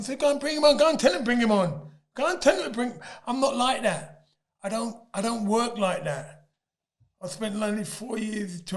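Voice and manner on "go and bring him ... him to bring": loud, high bring-him-on defiance; defiant challenge. Retold or imitated. Boxer retelling his defiant reply to the promoters. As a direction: throw the challenge back at them. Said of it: "I was cussing".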